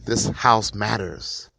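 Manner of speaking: slow, drawn-out call of this house matters; half-hearted retold yell; mild mock yell. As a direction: call it out slowly, as if to the street. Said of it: "yells out".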